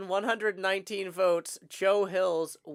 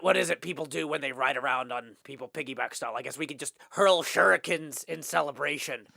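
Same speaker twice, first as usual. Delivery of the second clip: cowboy voice. Pretend. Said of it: "half Joker, half rodeo clown".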